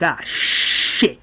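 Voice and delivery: breathy hushed swear; muttered curse. Acted. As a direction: swear under your breath. Martinez's car runs out of gas.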